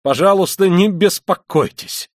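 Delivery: loud, high, drawn-out exclamation; crying out. A narrator's reading. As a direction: cry it out, stretching the last words. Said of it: "вскричал Раскольников и вдруг захохотал".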